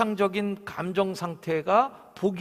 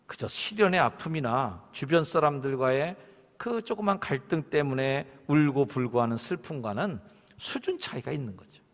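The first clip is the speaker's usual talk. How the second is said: ordinary talk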